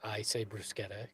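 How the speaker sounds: "bruschetta" with a hard k, said low and soft; Italian pronunciation. Shown as a demonstration. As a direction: quietly say "bruschetta" as broos-KET-ta.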